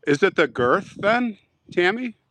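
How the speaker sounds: high laughing question; amused high-pitched quip; laughing tease. Real, not acted. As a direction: tease her while laughing. Joking back to viewer comment.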